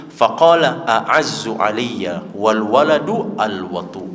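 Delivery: slow, drawn-out recitation of the Arabic quote; preacher reciting a classical Arabic quote, slowly. Retold or imitated. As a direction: intone the Arabic words slowly and deliberately. Quoting Abu Bakar in Arabic.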